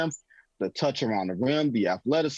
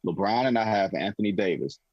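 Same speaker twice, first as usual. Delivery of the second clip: much lower, smug confident musing; imitating Pelinka; 5 semitones lower than usual. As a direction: think aloud low and self-assured. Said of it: "He was thinking".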